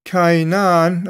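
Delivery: Cainan drawn out slowly, with its accent marked; accented name. Shown as a demonstration. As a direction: stress Cainan as the Greek accent shows. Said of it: "I got the accent there".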